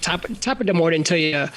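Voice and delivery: a rough Irish Spanish accent, voiced lightly. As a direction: play an Irish guy speaking Spanish, half-joking. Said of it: "I could try to do an Irish Spanish accent".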